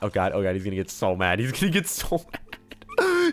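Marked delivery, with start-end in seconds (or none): 1.4-3.3 slow words breaking into a giggle; laughing. Real, not acted. Gamer circling the hater's plot, gleeful laughing. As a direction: laugh through the end of the line.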